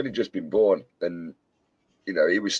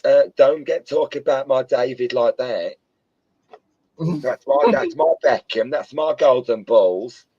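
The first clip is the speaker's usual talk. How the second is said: Victoria quote; 4 semitones higher, 4 dB louder than usual. Retold or imitated. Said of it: "she's like".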